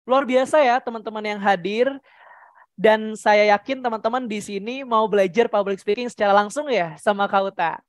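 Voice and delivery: spirited host patter; upbeat quickened tempo. Shown as a demonstration. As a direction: lively welcome to the audience. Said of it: "itu dipercepat temponya".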